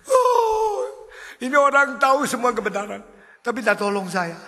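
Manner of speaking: high, loud reply from the pit; drunk man answering. Acted. Drunk complains after he left.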